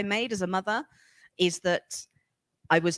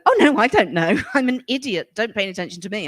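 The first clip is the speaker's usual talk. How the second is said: mock self-dismissal; 5 dB louder than usual. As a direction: brush yourself off with a giggle, mocking. Mocking self-dismissal to followers.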